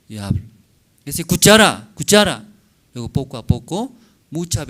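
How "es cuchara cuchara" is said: light coaxing mother. Acted. Mother teaching baby a word.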